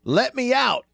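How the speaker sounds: yelling to be let out of the coffin, hammed up; mock trapped-in-a-coffin yell; mock scream from the coffin. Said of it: "a recording to scream".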